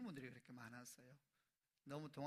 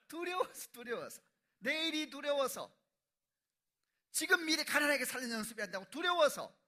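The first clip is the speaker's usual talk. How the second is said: high, loud sermon climax on fear; preaching at full force; 11 semitones higher, 16 dB louder than usual. Real, not acted. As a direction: drive the word home like a preacher.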